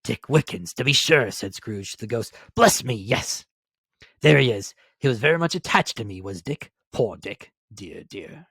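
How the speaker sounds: delight sliding into wistful pity; fond old Scrooge. Acted. Scrooge remembers Dick, fond then wistful.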